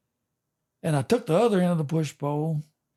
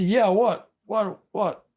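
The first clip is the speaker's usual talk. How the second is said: jolted out of a daze, higher and louder; a sudden startled yelp of "what?"; 5 semitones higher, 4 dB louder, slower than usual. Retold or imitated. Startled friend snapping out of shock.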